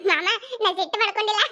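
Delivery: laughing reassurance that you're not angry; asked to say it smiling, she laughs through it. Real, not acted. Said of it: "ನಕ್ಕೋತ ಹೇಳ್ಬೇಕಾ?".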